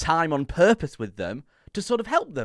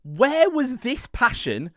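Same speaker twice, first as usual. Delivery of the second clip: raised, emphatic mock challenge; mock indignation; 4 dB louder than usual. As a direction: demand an answer in playful outrage. Mock challenge to Scottie on video.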